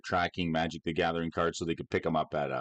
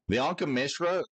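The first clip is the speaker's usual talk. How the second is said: words mushed around a held tongue; holding your tongue; 6 semitones higher than usual. Shown as a demonstration. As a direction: say it while gripping your tongue. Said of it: "this is a card that you say it while you're holding your tongue".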